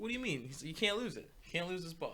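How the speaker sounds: lightly voiced golf buddies; joke dialogue. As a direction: play the puzzled golfer then the insistent one. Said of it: "It's like".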